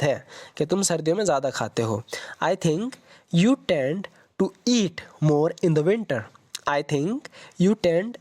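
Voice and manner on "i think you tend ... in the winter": slow whispered model sentence. Shown as a demonstration. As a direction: breathe the sentence out with no voice.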